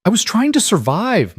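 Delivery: high, loud shout. Acted. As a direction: shout it back at her. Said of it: "Maya shouted".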